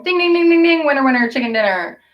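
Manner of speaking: gleeful mock game-show announcer; game show ding. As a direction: ring it out like a prize bell. Announces Wes wins a prize.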